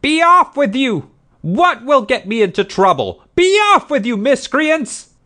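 very high, loud enraged yelling; raging woman's screamed dismissal; furious roaring. A narrator's reading. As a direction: drive them off, beside yourself with fury. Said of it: "shaking her fist and roaring".

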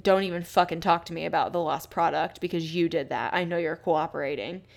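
hint of a yell, firm and accusing; mock angry yell. Podcaster quoting the trucker berating his boss, mildly angry. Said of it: "he basically yells at his boss".

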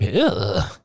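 drawn-out "ugh" of revulsion; mock-disgusted noise; disgusted groan. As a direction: groan as if grossed out. Own disgusted reaction to the line.

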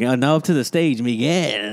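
awards-show announcer. Pretend. Mocking the anglicised name as a Billboard Awards host, light announcer voice. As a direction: announce "Miguel" like a hammed-up emcee. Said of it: "not the fucking Billboard Awards".

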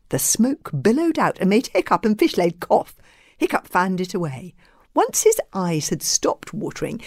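expressive storybook reading; story narration. A narrator's reading. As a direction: read aloud to children, savouring the details.

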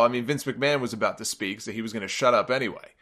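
ordinary talk

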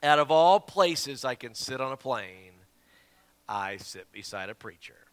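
imitated annoyed grumble, slow and sinking; exasperated. Plane passenger complaining about his seatmate, mock exasperation. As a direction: start loud and slow, then drop away in disgust. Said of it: "rolls his eyes right in front of me".

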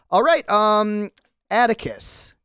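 a startled little man rushing everyone; squeaky startled cameraman. Acted. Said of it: "the cameraman says".

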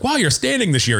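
very high mocking jab; high teasing voice. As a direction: tease a friend in falsetto. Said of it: "I was like".

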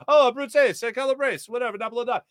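lightly acted, high-pitched delight; imitated excited locals. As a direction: react like delighted locals hearing a hometown. Acts out excited Italians' reply.

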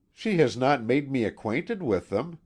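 sulky, aggrieved complaint; discontented maid's grumble; discontentedly. A narrator's reading. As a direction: grumble it resentfully. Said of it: "said the woman discontentedly".

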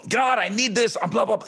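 mock busy yell. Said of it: "We're so busy".

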